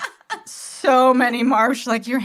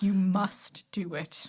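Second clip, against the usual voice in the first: whispering; 4 semitones lower, 7 dB quieter, slower than usual. Retold or imitated. Quoting Catholic school teachers.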